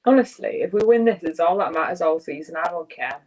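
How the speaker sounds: mock-earnest sarcasm, tailing off; deadpan pretend it's all that matters; sarcastic. Real, not acted. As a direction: say it sincerely but sarcastically. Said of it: "I'm being sarcastic".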